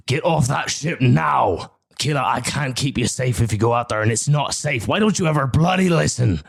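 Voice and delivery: frantic father shouting; shouting from the dock. Acted. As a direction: shout desperately over the distance. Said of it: "You're in shouting distance".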